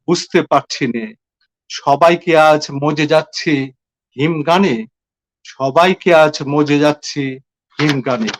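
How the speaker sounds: measured poetry reading with deliberate pauses; solemnly paced verse reading; poem recitation. Acted. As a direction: recite it line by line, letting each one settle. Recites own poem in Bangla.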